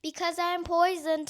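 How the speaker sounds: mock solemn warning; stress on poisoned. A narrator's reading. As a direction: press hard on poisoned. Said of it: "said Supra".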